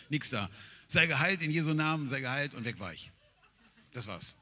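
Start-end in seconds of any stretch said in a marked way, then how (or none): 0.9-2.5 emotionless command. Retold or imitated. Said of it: "Sehr emotionslos".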